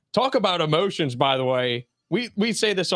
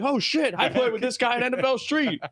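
mock excited gamer; 8 semitones higher than usual. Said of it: "I'm like".

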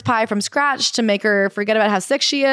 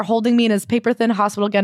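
ordinary talk

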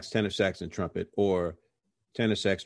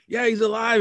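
retold reply; 8 dB louder than usual. Brother's reply in retold chat.

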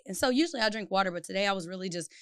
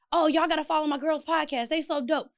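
imitated hype; 5 semitones higher than usual. Imitates man hyping their podcast.

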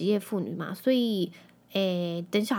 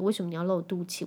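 light mock nagging from a kid, quick; whiny child complaint; 2 semitones lower, faster than usual. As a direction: play the embarrassed child scolding mom. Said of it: "还会就是管我". (轻轻模仿孩子抱怨，语速偏快)

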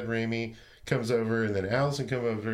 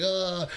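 high mock outcry "ah"; half-hearted wild-man holler; imitated yell; 8 semitones higher than usual. Imitates Jonathan wilding out on TV.

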